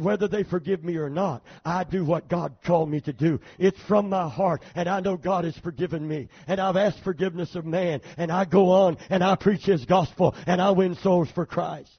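a preacher swelling to a triumphant declaration; rising preaching. Acted. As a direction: preach it, growing in force. Preaching build to climax.

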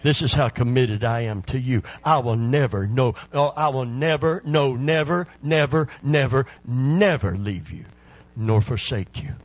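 insistent preaching, "never" driven home repeatedly; emphatic divine promise. Acted. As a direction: voice God's promise, climbing through each "never". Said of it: "is trying to tell us something".

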